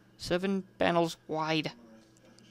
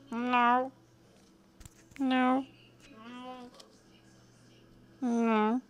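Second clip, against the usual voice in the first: flustered denial; 7 semitones higher, 5 dB quieter, much slower than usual. Acted. Twilight denies with mouth full.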